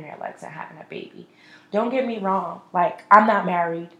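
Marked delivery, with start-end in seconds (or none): 0.0-1.3 whispered aside; said low. Real, not acted. Admitting it to viewers in a sudden whisper. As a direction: drop to a whisper for the last words. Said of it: "I said that low".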